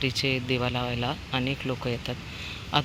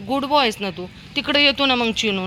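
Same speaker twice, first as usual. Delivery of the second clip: higher coaxing pet talk; coaxing the dog; 8 semitones higher, 3 dB louder than usual. Real, not acted. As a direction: sweet-talk the dog into staying.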